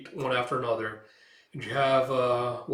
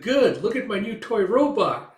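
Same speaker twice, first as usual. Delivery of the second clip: put-on excited kid voice; 9 semitones higher, 7 dB louder than usual. Child showing grandpa her toy.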